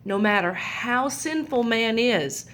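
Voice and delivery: put-on gentle, lively storybook reading for kids; reading to children. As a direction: read it like a picture book to little ones. Reads Bible story to children.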